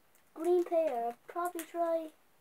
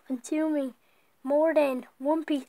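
loud warning read; 7 dB louder, slower than usual. Shown as a demonstration. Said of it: "It says".

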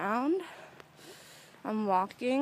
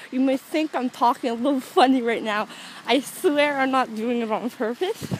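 numb mouth. Real, not acted. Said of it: "I'm sounding a little, like, bit like Daffy Duck".

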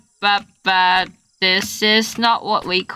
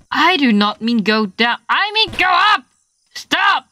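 fast, higher frustrated telling-off; annoyed scolding; 3 semitones higher than usual. Real, not acted. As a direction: scold the climber for going down. Yelling at game character.

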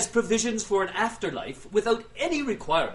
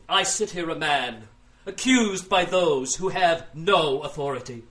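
melodrama. Acted. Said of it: "Melodrama always plays well with the crowds".

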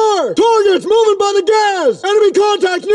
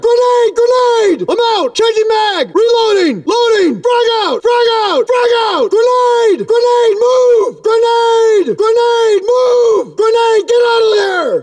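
urgent grenade warning; 3 semitones higher than usual. Acted. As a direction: warn the squad before it blows. Grenade incoming, warning the squad.

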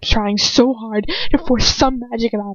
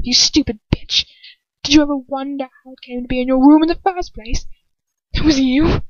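taunting villain; 5 semitones higher than usual. Acted.

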